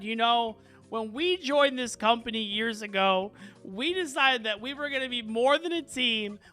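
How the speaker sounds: the whole team standing up to Melanie, rising in heat; defiant coworkers. Acted. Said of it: "they all just said".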